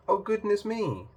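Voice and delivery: high startled gasp of a princess; mock surprise. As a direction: act shocked, hand to heart. Princess surprised by pea ring.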